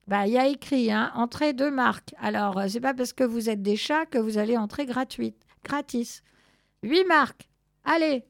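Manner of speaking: no free entry, said firmly; gruff ticket seller. Acted. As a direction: play an insistent ticket clerk, a little loud.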